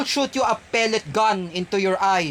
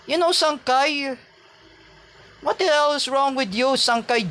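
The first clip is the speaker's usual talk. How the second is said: higher-pitched, exasperated scolding; angry rant; 7 semitones higher than usual. Real, not acted. Vlogger berating a rival YouTuber, angrily. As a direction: demand an answer in real anger. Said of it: "I know I am very stressed, I'm very angry".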